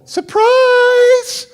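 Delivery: loud high party shout; high, loud group yell; shouted surprise. Retold or imitated.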